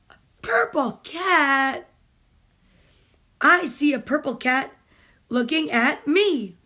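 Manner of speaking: slow, rhythmic picture-book reading; reading aloud to children. Acted. Mom reading a picture book to kids on a stream, storytime reading. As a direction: read it like storytime for little ones.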